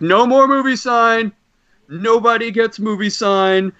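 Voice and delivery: slow, high, firm shutdown; a hint of an annoyed host. Host telling the line the joke is over, mock stern and slow. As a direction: lay down the law, slowly. Joel stops the bit, annoyed.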